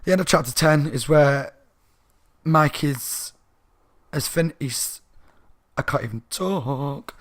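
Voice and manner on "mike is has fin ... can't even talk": struggling with a dry mouth. Real, not acted. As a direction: talk as if your mouth is parched. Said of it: "dry mouth".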